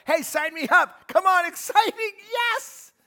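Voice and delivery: high, loud, hammed-up eagerness; a bouncy, exaggerated "count me in"; mock eager volunteer. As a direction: overplay the keen volunteer signing up. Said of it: "you're like".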